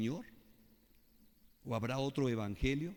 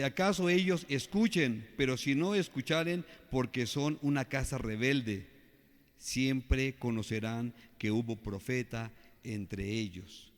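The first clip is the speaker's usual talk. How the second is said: scripture reading. Acted. Preacher reads Ezekiel to the congregation, raised proclamation.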